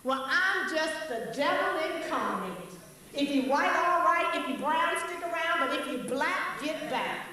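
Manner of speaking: punchy rhyming recitation with rising tags on white, brown and black; rhythmic poem. Shown as a demonstration. Closing poem to Europeans, rhythmic rhyming recital. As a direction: chant the rhymes with a bounce. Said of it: "I'm gonna close now with this poem".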